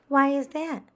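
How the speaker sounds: high, loud indignant question; indignant child. Acted. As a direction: demand it like a put-out child. Frances demanding why.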